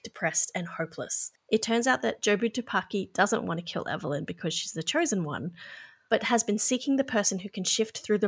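measured film summary narration; scripted synopsis read. Real, not acted. Host reads the film's plot to listeners, scripted narration. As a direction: read the plot out evenly from prepared notes.

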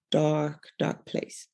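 dark fading to a breathless near-whisper; hushed. Real, not acted. Testimony speaker recalling her darkest time, hushed and fading. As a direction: let the second dark sink into a hush.

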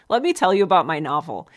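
hammed-up eager writer; overeager, pushy pitch; mock eager pitch. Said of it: "writers who are ever like".

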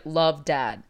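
flat, stiff sign-off; lightly voiced robotic dad. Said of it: "in a very, like, robotic way".

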